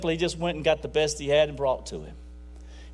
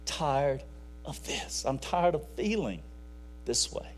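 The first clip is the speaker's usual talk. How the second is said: retold crying; 4 semitones lower, 9 dB quieter than usual. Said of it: "And she's crying".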